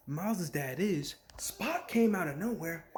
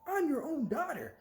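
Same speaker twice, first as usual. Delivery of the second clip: mock desperate plea; 4 semitones higher, 3 dB louder than usual. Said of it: "it's like".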